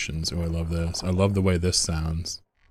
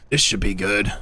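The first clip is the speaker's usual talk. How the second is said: a slightly higher take on the unit line; higher-pitched game voice. Acted. Streamer correcting his vulture impression, slightly higher pitched. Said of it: "he's higher pitched".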